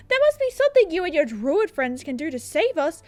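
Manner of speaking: pleading, climbing to a high cry; councilman voice. Acted. Councilman begging druids to save them, building to desperation. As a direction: beg theatrically, peaking on the last plea. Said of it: "what voice do I do for the councilman".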